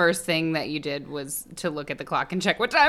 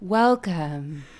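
creepy welcome. Acted. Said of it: "you're freaking me out".

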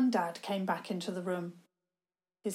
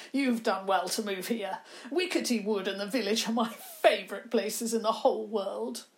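put-on chuckling old man; 3 dB louder than usual.

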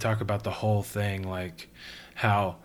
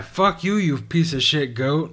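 loud, laughing mock yell; angry yell; 4 semitones higher, 4 dB louder, slower than usual. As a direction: shout at the goat, half laughing. Quoting album line.

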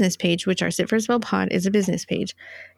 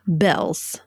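whisper; 3 semitones lower than usual. Real, not acted. Whispered topic switch.

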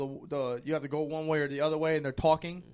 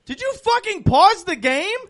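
imitating the game's gun yelling at a streamer; furious gun voice; 13 dB louder than usual. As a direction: scream at her like an enraged talking gun. Talking gun yells at streamer.

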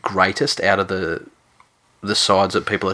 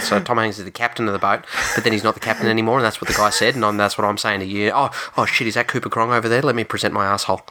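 mock Cherry explaining; 2 semitones higher, faster than usual. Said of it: "He'd look at him and go".

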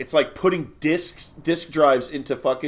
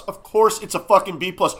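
raised, high-pitched comic rant, building louder; mock outrage; 6 semitones higher, 6 dB louder than usual. Podcast host defending the Goonies grade, mock outrage. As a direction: build an indignant tirade to a loud peak.

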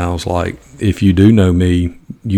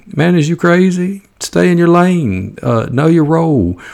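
mock self-scolding; 9 semitones higher than usual. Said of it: "scolding himself in mock rebuke".

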